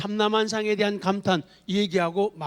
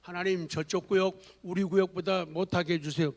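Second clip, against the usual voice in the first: mock petty prayer; 3 semitones lower, 5 dB quieter than usual. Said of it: "내 만든 얘기예요".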